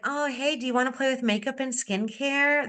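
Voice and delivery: a limp, half-hearted invitation with no energy; unexcited pitch. Shown as a demonstration. Consultant inviting a friend to a party, dull and unexcited. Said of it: "If you're not excited".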